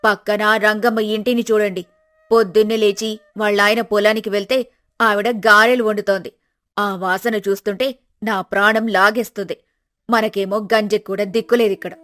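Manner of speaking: nagging wife. Acted. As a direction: nag the lazy husband awake.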